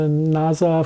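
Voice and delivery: "nasa" said nah-zah, with a Z sound; German accent on "nasa", voiced Z in the middle. Real, not acted. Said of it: "I like the way you say nasa".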